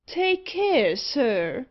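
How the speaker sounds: high, loud indignant outburst; furious cry. A narrator's reading. Burnt gentleman rebukes the careless assistant, furiously. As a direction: start high and cry it out angrily. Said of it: "cried the gentleman furiously".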